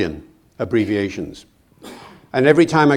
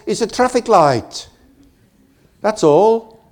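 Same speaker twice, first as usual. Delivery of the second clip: raised, patient explaining tone; amused explanation; 8 semitones higher, slower than usual. Retold or imitated. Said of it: "he says".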